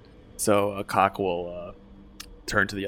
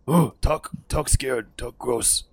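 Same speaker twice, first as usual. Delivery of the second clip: put-on higher, louder childish fear; simple-minded scared orc; 5 semitones higher, 4 dB louder, slower than usual. Talk to his gang about the sick one, dim scared voice. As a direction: back away whimpering like a dim brute. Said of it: "He'll say".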